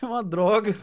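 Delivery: slightly hammed-up self-pity; mock drama. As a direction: lament your life as a joke. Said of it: "ninguém merece drama do Portugal". (lamento dramático de brincadeira)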